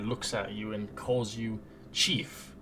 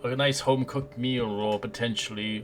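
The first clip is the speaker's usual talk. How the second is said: dramatic narration; 4 dB louder than usual. Acted. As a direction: set the eerie opening like a storyteller. Game master opening narration.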